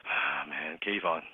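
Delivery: very soft, grave, hesitant; sighing doctor. Acted. Doctor looking at Kayvon's blood test, sighing gravely. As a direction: sigh and break bad news reluctantly. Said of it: "when he sighs".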